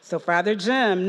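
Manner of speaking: ordinary talk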